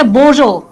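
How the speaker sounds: বোজো with two long o sounds; বোজো, French greeting in a Bangla accent; French bonjour. Shown as a demonstration. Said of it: "উচ্চারণটা একটু কঠিন আছে".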